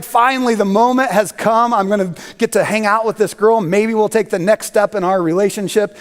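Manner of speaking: mock eager young man, only a touch lifted; excited. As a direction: retell a boy's eager joy, lightly. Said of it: "And he was excited".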